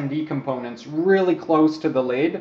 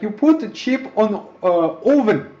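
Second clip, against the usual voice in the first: higher-pitched hammed-up German accent; 6 semitones higher, 4 dB louder than usual. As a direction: imitate a German guy with a thick accent. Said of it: "hilarious accent".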